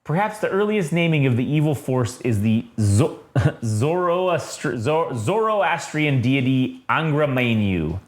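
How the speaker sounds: measured reading of a solemn text; narration reading. A narrator's reading. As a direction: read it out like a comic-book narrator. Reads the comic's narration aloud.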